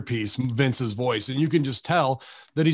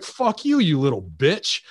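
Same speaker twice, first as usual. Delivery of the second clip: McAfee; 3 semitones higher than usual. Retold or imitated. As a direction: spit out the insult, pitch jumping up then falling. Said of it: "McAfee's like".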